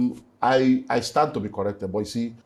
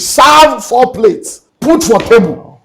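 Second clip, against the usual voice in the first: slow and heavy; 9 semitones higher, 11 dB louder, much slower than usual. Real, not acted. Cooking for an empty house.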